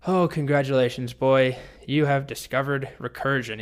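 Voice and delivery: mock congratulations, talking down; condescending. Dragon congratulates the boy on discovering recursion, condescending. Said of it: "He's very condescending".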